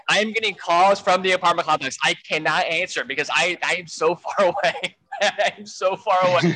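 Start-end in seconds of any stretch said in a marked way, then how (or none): 3.6-6.6 laughing. Real, not acted. Laughing at own lateness.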